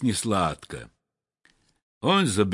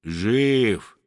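sleepy good morning. Acted. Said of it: "сонным голосом откликается".

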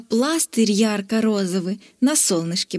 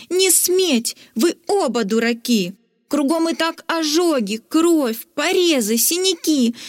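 shouting; 3 semitones higher than usual. Acted. Stella shouting at the fighting knight and dragon. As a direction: tell them both off. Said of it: "Стелла крикнула".

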